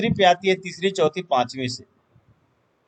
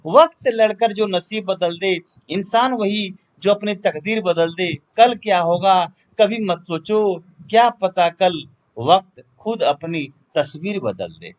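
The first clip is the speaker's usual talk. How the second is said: emphatic declaimed poem, line by line; verse recitation. Acted. Teacher reciting motivational poetry to students, declamatory.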